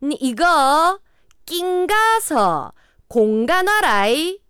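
high, loud, very slow Gyeongsang dialect; 경상도 사투리. Shown as a demonstration. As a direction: repeat the test item with exaggerated high Gyeongsang swoops. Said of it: "다시 한번 문제 들려드립니다". (높고 느리게 과장한 경상도 사투리)

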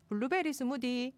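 Gyeongsang pitch swing on 블루베리 스무디; Gyeongsang dialect. Shown as a demonstration. Host proving her dialect is right, Gyeongsang accent. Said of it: "경상도 사투리로".

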